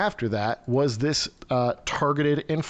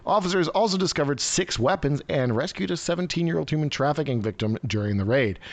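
news read; 2 semitones higher than usual. Real, not acted. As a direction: read the report out like a newsreader. Reads a news article aloud.

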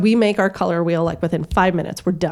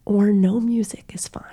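whispered, gentle offer; hushed aside to the teacher; quiet suggestion; 2 semitones higher than usual. Retold or imitated. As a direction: slip it in softly. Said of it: "kind of quiet".

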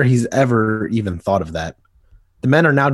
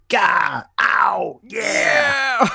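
pained yells; 9 semitones higher, much slower than usual. Acted. Thugs knocked off the train.

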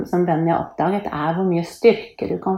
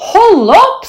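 high, loud objection; annoyed protest; 11 dB louder than usual. A narrator's reading. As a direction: tell her to stop, loudly. Thor protests the school game. (irritert, høy protest)

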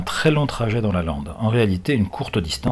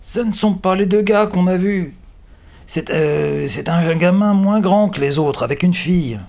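high, surprised exclamation; cry of surprise; 10 semitones higher, 4 dB louder than usual. A narrator's reading. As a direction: blurt it out in astonishment. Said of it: "pousse alors un cri de surprise".

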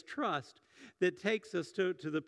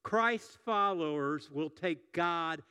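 slow emphatic sermon line; slow, deliberate declaration; slower than usual. Shown as a demonstration. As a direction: spell out the key sentence slowly. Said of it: "this is the sermon in a sentence".

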